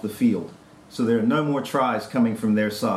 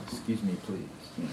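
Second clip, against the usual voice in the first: a soft, lightly mocking prim "Excuse me please"; mock genteel politeness; 4 semitones lower, 11 dB quieter than usual. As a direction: murmur it like a township joke about prim manners. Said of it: "referred to them as the "excuse me please" class".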